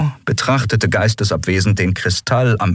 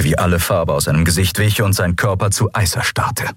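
usual speaking voice

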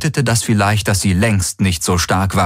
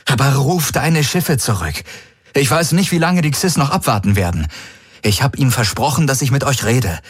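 hohe, drängende Stimme eines verzweifelten Mannes; Garlin, flehend; 7 semitones higher than usual. A narrator's reading. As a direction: fleh sie an, hastig und atemlos. (Garlin fleht Ylana an, den Krieg zu beenden)

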